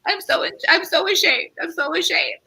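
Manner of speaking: high, mock-ashamed confession; a hint of theatrical remorse; mock shame. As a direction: ham up the shame. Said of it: "it's like".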